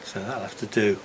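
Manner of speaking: breathless and panting after work; winded, catching breath between words. Real, not acted. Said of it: "I'm well out of breath".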